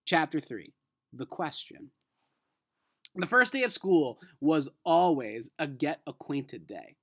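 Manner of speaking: reading a chapter aloud to the class; steady read-aloud storytelling; teacher reading a novel to students; story narration. Acted. Reads next chapter aloud.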